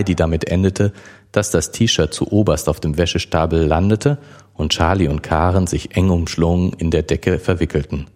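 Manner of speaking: even audiobook reading voice; calm storyteller reading a romance scene; story narration. A narrator's reading. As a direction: read the chapter to listeners. Reads the novel chapter aloud.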